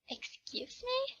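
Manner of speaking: high, slow offended "Excuse me?"; offended disbelief. Acted. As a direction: drag it out in outraged disbelief. Girl insulted as low-class.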